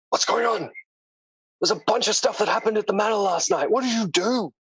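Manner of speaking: high-pitched, pressing questions as the dwarf; agitated dwarf. Acted. Dwarf questions arriving party about last night, agitated and high. Game master voices worried Reggie.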